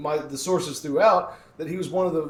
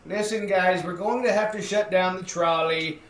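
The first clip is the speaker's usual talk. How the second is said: a light Wisconsin accent on a mock official announcement; lightly voiced Wisconsin city official, half-laughing; 2 semitones higher than usual. A city official shutting the trolley down, in a hint of Wisconsin accent. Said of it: "I have a Wisconsin accent while I'm doing this".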